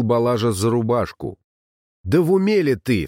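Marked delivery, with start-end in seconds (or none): 2.0-3.1 exclaimed. A narrator's reading. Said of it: "вскричал он".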